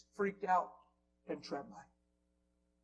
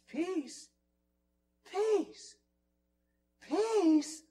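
high-pitched cry, growing louder; overwhelmed cry; 12 semitones higher, 7 dB louder, much slower than usual. Retold or imitated. Newly converted coworker on an answering machine, crying out high. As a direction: imitate a man overcome, pitch leaping up. Acting out supervisor's overwhelmed phone message.

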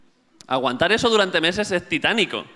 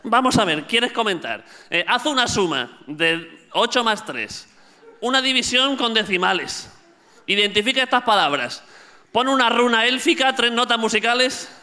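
higher-pitched, lightly hammed-up examiner; mock demanding captcha; 6 semitones higher than usual. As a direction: reel off ever more absurd demands. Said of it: "pero ahora ya es". (captcha exigente, en parodia y agudo)

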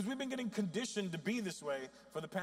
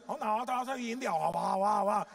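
imitating the lady; 5 semitones higher, 8 dB louder than usual. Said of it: "she goes".

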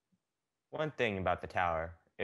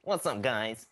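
nerd voice; 3 dB louder, slower than usual. Acted. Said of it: "get Ned the Nerd out here".

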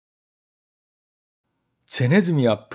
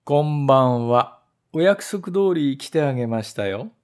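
condescending. Acted. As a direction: act as if doing the trap a favour. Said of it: "いかにも恩に着せたように".

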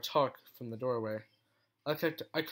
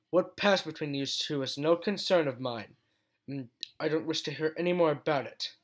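stern rebuke; 2 semitones higher, 4 dB louder than usual. Acted. Scolding the general.

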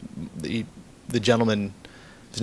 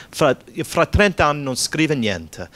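higher-pitched retold Italian reproach; mock scolding; 5 semitones higher, 4 dB louder than usual. Woman, hands on her hips, to long-absent cousin, mock scolding. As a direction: imitate an indignant relative telling someone off.

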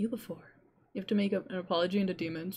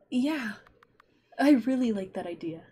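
put-on boy voice; 3 semitones higher, slower than usual.

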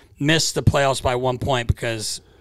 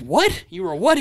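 mock surprise; 5 semitones higher than usual. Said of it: "Dad's like".

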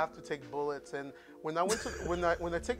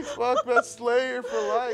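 emotional; 6 semitones higher, 7 dB louder, much slower than usual. Real, not acted. Emotional tribute to dead guitarist.

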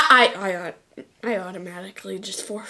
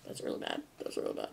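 very low voice; 18 dB quieter, much faster than usual. Pretend. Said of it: "repeated deep takes".

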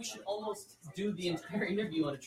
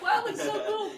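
mock awe; 4 dB louder than usual. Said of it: "I'm like".

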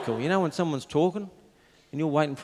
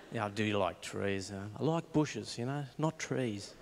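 quiet awkward mumble; 4 semitones lower, 8 dB quieter, slower than usual. Retold or imitated. Awkward answer to canvasser.

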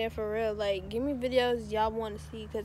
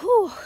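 tired whew; 9 semitones higher, 11 dB louder than usual. Real, not acted. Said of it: "Yo, I'm tired".

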